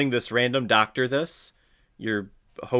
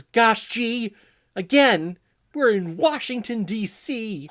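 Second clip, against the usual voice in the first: mock wholesome boy pleading, pitched up; gee-whiz kid; 6 semitones higher than usual. Boy begging Ma to skip bedtime, mock gee-whiz voice. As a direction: plead like an old-movie kid, climbing higher.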